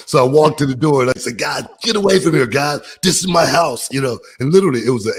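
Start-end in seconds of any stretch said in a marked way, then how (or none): 1.4-3.9 mild mock angry shout; retold annoyed homeowner telling kids off. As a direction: chase them off your property. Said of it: "I was so mad".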